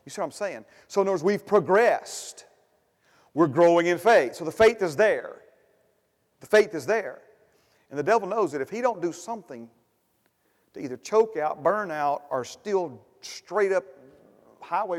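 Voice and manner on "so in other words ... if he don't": loud, high preacher's cry; rising sermon shout; preaching loud. Acted. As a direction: proclaim it to the whole church. Preaching at full force.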